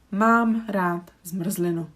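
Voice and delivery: Mám rád zmrzlinu said slowly and clearly; slow model sentence. Shown as a demonstration. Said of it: "So zmr, zli, nu".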